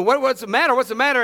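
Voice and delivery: retold alarm. Mother questions shrieking Easton, mock alarm.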